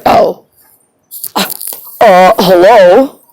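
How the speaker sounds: slow, loud, drawn-out mock "hello?"; baffled clerk. Clerk answering the narrator, mock-baffled and loud. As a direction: play the clerk as if the question is absurd.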